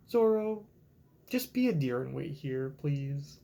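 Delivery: lightly voiced gentle Robin; imitating Robin, gently. Mimicking Robin asking Zoro to stay, gentle. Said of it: "And Robin's like".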